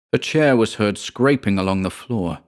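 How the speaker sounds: plain reading voice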